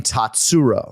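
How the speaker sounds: "Tatsuro" stressed on the middle syllable; "Tatsuro" said as tat-SU-ro; wrong-syllable stress. Shown as a demonstration. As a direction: lean on the "su" in "Tatsuro". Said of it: "I've been emphasizing the wrong syllable".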